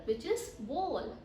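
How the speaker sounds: "bowl" said slowly; taught pronunciation. Shown as a demonstration. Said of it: "you have to say". (सही उच्चारण, धीरे)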